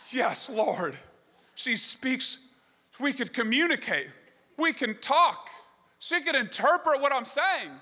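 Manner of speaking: lightly acted, building excitement of a grateful mom; imitated relieved mom. Russian mom finds someone who speaks her language, imitated excitement. Mom voiced, overjoyed to be understood.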